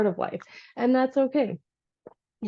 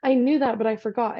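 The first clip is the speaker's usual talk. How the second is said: surprised; 3 semitones higher than usual. Retold or imitated. Realizing she forgot.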